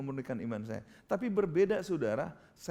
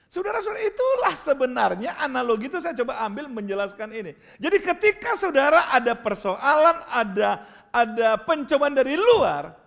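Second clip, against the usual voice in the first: loud, high-pitched sermon exhortation; forceful preacher, high and loud; full-force preaching; 9 semitones higher, 11 dB louder than usual. Acted. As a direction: drive the point home to the congregation, loudly.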